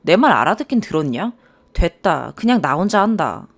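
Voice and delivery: mock the husband's irritated grumbling; held-back anger. Husband fed up with wife's directions, irritated. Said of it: "화를 참을 때 내는 한숨 소리를".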